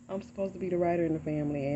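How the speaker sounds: fast, rueful laugh through the words; laughing at herself. Real, not acted. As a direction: laugh it off at her own expense. Repeats own line with a laugh.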